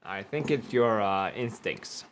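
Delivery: talking round paper in mouth; mouth full. Real, not acted. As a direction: speak with something in mouth. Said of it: "Why'd you say it like that?".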